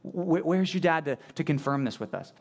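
lightly sarcastic mock question. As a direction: feign innocence while needling. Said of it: "It's sarcastic".

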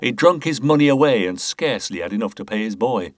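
Boothby hamming up his charity to the inspector; mock pious. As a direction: lay on false piety like a man pleading his goodness. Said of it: "tried his best to affect a pious air".

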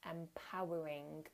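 "empowering" said slowly, each syllable weighted; "empowering" drawn out slowly for emphasis; emphasized word. Real, not acted. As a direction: lean on "empowering" and slow it down. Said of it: "emphasize that word".

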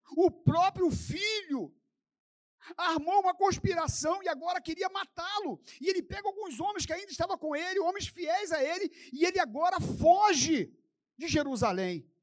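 ringing pulpit delivery; impassioned preaching. Real, not acted. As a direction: preach it with full force, pitched high. Preaches at full force.

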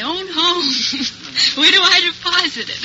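laughing. Retold or imitated. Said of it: "he said".

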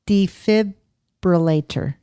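DEFIBRILLATOR slowly as "dee-fib... bruh-lay-ter"; slow, split defibrillator; careful attempt. Shown as a demonstration. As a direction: pause after "fib" in defibrillator. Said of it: "I can't even say it".

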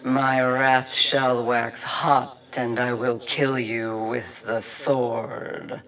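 slow, loud, booming sermon voice; the exhorter roars scripture through the church wall; bellowing preacher. Acted. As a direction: bellow it from the pulpit, dragging each word. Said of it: "when they bellowed".

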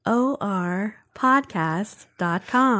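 slow, smooth announcer voice; smooth robotic announcer; too smooth android. Shown as a demonstration. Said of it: "That's actually a pretty good voice".

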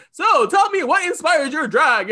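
slow, lifted, booming host voice with a wide open warmth; talk show host voice. Retold or imitated. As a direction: lean in like a big daytime talk show host asking a guest. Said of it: "in my Gage and Oprah voice".

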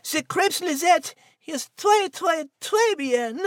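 put-on French accent. French cat praising crepes.

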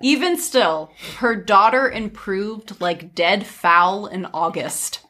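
measured fairy-tale narrator; story narration. A narrator's reading. Telling friends of a scolding mother, story narration.

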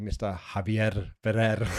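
matador impression. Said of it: "my best kind of, like, matador impression".

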